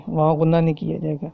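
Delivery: ordinary talk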